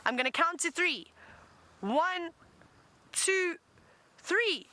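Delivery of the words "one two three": building countdown. Real, not acted. Leads kids' hippo call countdown.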